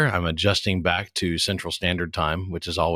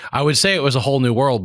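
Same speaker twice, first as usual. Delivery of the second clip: playful Aladdin quote; 6 semitones higher, 5 dB louder, faster than usual. Pretend. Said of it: "that'd be an Aladdin reference".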